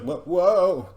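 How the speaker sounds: panicked rider, loud; nervous yelp. Retold or imitated. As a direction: yelp as the horse bolts.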